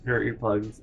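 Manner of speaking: normal talking voice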